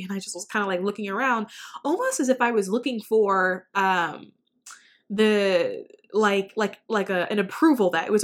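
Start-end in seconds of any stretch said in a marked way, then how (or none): none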